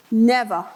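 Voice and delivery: Never set apart with a hard fall; firm echo of never. Real, not acted. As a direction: drop Never like a verdict. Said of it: "it's never let me down".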